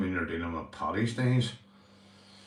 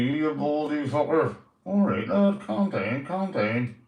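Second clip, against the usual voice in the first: puppet voice; 4 semitones higher, 3 dB louder than usual. Acted. Puppet and owner banter.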